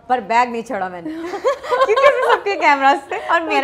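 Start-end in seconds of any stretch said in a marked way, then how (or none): 0.9-3.4 laughing. Real, not acted. Laughing at her own stubbornness.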